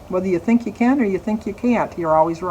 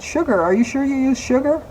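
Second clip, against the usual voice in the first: retold sudden suspicion; 6 semitones higher than usual. Realizing the salt mix-up.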